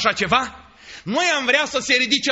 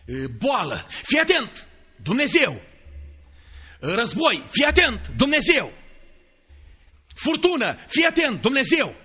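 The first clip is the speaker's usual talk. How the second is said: threatening parent. Retold or imitated. Parent threatening child with God.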